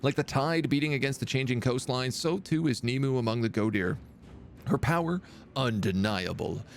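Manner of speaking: lore reading. Acted. Reads faction lore aloud.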